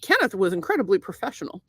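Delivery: put-on formal testimonial in a vaguely Irish accent. Praising banker to the caller, put-on Irish accent. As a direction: recite the praise with an affected Irish precision. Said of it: "tell me what kind of accent".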